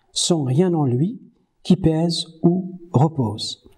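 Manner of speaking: measured recital of verse, lingering at the end; poem reading. Acted. Teacher reading Verlaine to students, measured recital. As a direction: read it like a poem to the class.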